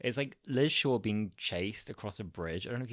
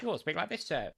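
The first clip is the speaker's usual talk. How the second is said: high, stiff mock soldier, Of course sir; lightly voiced army man, half a joke; hammed-up soldier voice; 9 semitones higher, faster than usual. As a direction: play a stiff old soldier, pitched up. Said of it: "they all talk like this".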